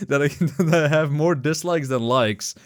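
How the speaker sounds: mildly excited retold cheer, laughing midway; lightly acted excitement. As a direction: replay your gleeful reaction with a laugh. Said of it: "I was so excited".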